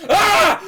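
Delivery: sudden high shout of shock; loud gasping scream; startled yell. Acted. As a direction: jolt awake with a cry. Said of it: "you just see Count Marcus go".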